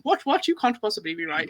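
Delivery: lightly hammed-up British indignation; pretentious British debaters. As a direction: play a stuffy British arguer in disbelief. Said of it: "two British people sitting there going".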